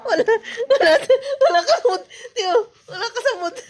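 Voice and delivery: words through giggles; amused, giggly delivery; laughing. Real, not acted. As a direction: tease while laughing. Laughing while teasing bebe.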